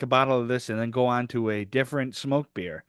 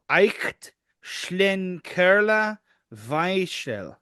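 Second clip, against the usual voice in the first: German read in an Irish accent; slow, careful Irish-accented reading; 3 semitones higher, much slower than usual. Real, not acted. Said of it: "you said that like an Irishman".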